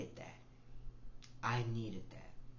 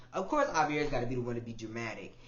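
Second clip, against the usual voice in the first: louder, mock teasing friend voice; 7 dB louder than usual. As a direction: rib him loudly like Betty did. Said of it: "she's like".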